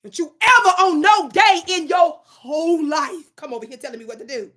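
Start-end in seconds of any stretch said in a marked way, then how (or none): 0.0-3.5 loud slow warning. Real, not acted. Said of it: "I'm in a zone right now".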